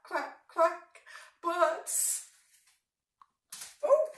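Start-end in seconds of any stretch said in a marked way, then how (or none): 0.0-1.0 laughing quack. Acted. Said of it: "Mummy duck said".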